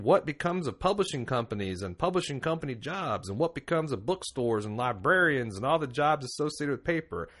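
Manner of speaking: playful Southern accent mocking the politician's words. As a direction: read the congressman's quote in a mock Southern voice. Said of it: "I'm actually doing, like, a Southern ignorant person's accent".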